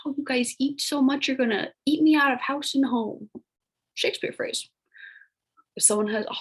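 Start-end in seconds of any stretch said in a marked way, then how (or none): 0.1-3.3 put-on higher, teasing grandma scolding the kids; a light imitation of a fussing grandma. Teacher imitates a grandma scolding kids for eating, lightly voiced. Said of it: "Maybe your grandma was like".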